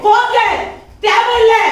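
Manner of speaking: high, loud dismissal; angry shout. Acted. Wife yells after husband that he is not needed, loud and high. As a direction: spit out the last word at him.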